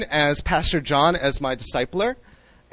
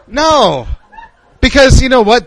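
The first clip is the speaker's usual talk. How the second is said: laughing; 5 semitones higher, 8 dB louder than usual. Real, not acted. Laughing after mock prayer.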